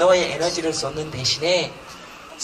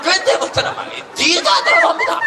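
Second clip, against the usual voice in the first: ordinary talk, nothing marked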